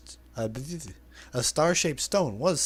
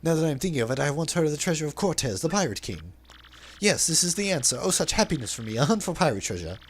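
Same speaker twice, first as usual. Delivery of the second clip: flamboyant merchant voice, lightly put on; theatrical braggart reading; hammed-up Flavio; 3 semitones higher than usual. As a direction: play the vain, dramatic sailor.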